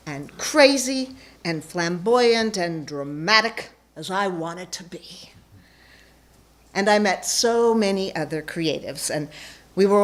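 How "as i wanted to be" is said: whisper. Acted. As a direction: drop to a sudden breathy whisper. Flamboyant confession, dropped to whisper.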